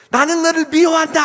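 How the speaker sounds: very high, full-force bellow; all-out acted yell. Mother and son yell at the bully, shouting at full force. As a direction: hurl the hatred as loud as possible. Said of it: "소리 지르니까 더 크게".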